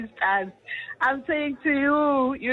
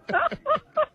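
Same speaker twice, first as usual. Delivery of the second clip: high burst of laughter. Real, not acted. Laughing at her own warning.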